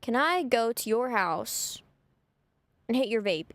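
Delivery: slowed way down in disbelief; incredulous slow repeat. Retold or imitated. Retelling her friend's odd request, slow and incredulous. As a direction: spell it out slowly, baffled. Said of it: "even though I don't vape?".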